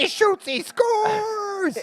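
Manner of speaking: high, excited commentator call; announcer shout. Acted. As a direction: yell it like a sports announcer. Sports announcer call on a shot.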